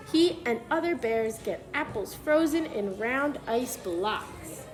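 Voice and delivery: clear, lively picture-book reading voice; reading to children. Acted. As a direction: read the letter aloud to the class.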